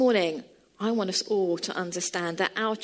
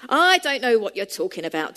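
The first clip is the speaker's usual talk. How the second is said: getting cross; 5 dB louder than usual. Retold or imitated. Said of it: "beginning to get cross".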